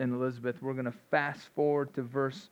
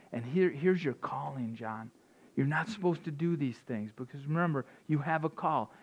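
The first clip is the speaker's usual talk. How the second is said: parents reminding their son; 6 dB quieter than usual. Pretend. Mom and dad telling young John his story, softer. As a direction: lean in and remind him of his calling.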